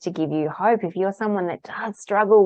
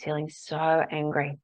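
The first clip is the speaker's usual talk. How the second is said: tapping statement. Shown as a demonstration. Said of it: "stating what the emotion is".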